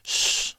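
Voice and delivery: long hiss between s and sh; tongue-back s, held softly; soft retracted S. Shown as a demonstration. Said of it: "It has that softer sound".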